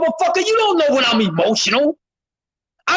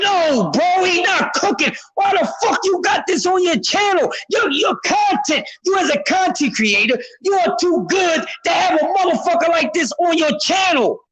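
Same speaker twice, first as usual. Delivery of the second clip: retold scolding to a creator; 4 semitones higher than usual. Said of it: "And I'm like".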